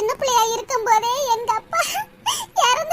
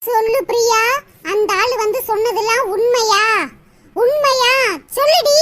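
louder and louder demand, ending in a shout; angry demand; 3 semitones lower, 4 dB louder than usual. Acted. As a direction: press her for the truth, building to a yell. Sister demands the truth. (கோபத்துடன் கத்தும் கேள்வி)

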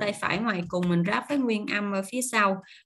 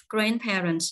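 Grandparents with the beat on "Grand"; stress on first syllable; slower than usual. Shown as a demonstration. Teacher models Grandparents for learners, first syllable stressed. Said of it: "nhấn vần một".

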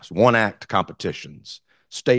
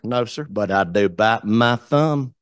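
slow, easy Appalachian reply; a touch of Appalachian drawl; Appalachian accent; slower than usual. Shown as a demonstration. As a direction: answer the insult in a lazy country accent. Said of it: "country Appalachian accent".

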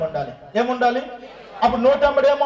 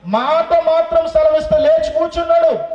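loud, higher proclamation; proclaiming loudly; 4 semitones higher, 4 dB louder than usual. Real, not acted. Preacher proclaims the healing to congregation, loud and high. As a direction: ring out the miracle.

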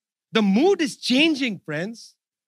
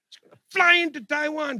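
higher mocking retake; sarcastic; 5 semitones higher than usual. Real, not acted. Mocking Pelosi's Taiwan trip again, sarcastic. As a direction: lift it in scornful mockery.

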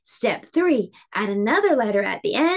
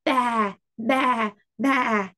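bleating Ba, ba, ba like a sheep; much slower than usual. Shown as a demonstration. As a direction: make Ba sound like a sheep. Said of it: "It sounds like a sheep".

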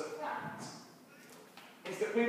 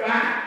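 stamp noise; 7 dB louder than usual. Shown as a demonstration. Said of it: "We go".

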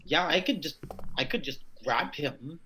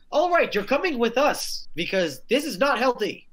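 higher, louder character voice; gruff character voice; 8 semitones higher, 5 dB louder than usual. Acted. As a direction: boss him out firmly. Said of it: "he goes over to Lou, it's like".

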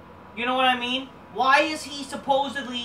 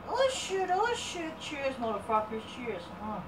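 high mock yelp; high silly cheers; playful exclamation; 3 semitones higher, 6 dB quieter than usual. Real, not acted. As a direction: squeal it as a joke. Toasting with a drink.

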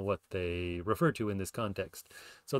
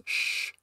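shushing. Shown as a demonstration. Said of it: "sentences such as".

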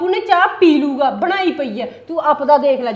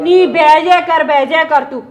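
louder, slow, cutting her off; loud dismissive sit down; 6 dB louder, slower than usual. Acted. Sister silencing sister mid-quarrel, loud and slow. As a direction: tell her to sit down and drop it.

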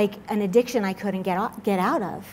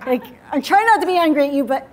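mock restrained anger; 3 semitones higher, 3 dB louder, faster than usual. Voicing an irritated God.

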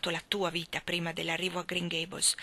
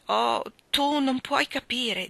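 slow, voice catching on the words; tearful and slowed, close to breaking; broken voice; 4 semitones higher, 3 dB louder, much slower than usual. Acted. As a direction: hold back tears as you say it. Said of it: "disse Catherine con voce rotta".

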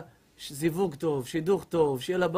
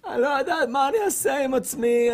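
crying woman; 2 semitones higher, 3 dB quieter than usual. Retold or imitated. Rabbi voices a crying mother pleading, sobbing. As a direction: sob it out as the distraught mother. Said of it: "תלדות בוכות".

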